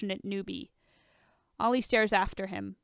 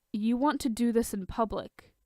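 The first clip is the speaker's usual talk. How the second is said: deadpan; 2 semitones higher than usual. Acted.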